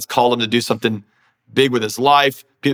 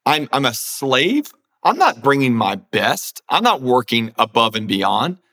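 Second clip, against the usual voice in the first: mock indignant disbelief. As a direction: act out a slave balking at the very idea. Acts refusing slave reacting to Joseph.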